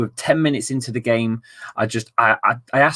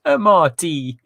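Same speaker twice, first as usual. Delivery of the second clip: laughing; 7 semitones higher, 5 dB louder, slower than usual. Real, not acted. Laughing at the phrase.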